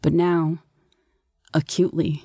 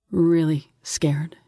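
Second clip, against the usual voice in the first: hushed, slow narration; understated dread; scared; much slower than usual. A narrator's reading. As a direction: draw it out in a near whisper. Narrator confessing fear.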